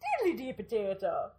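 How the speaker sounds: playful Irish diddly-dee; lightly hammed-up Irish; mock Irish accent. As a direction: put on a jaunty Irish brogue. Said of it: "We've just offended all the Irish".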